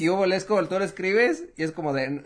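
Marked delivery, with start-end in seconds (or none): 0.0-0.3 mock Mexican slang. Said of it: "es con un acento".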